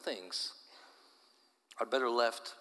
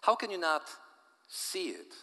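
indignant; 6 semitones higher than usual. Acted. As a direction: shake your head, outraged. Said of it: "shook his head with indignation".

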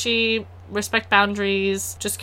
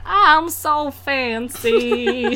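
mock posh; 4 semitones higher, much slower than usual. Playing up being fancy.

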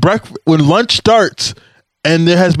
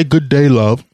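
light mock English accent; 2 semitones lower, slower than usual. Shown as a demonstration. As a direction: try a casual English accent. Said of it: "in an English accent".

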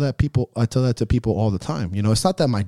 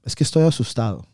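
quoting dad in Spanish; 5 semitones higher than usual. Retold or imitated. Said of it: "he says it like".

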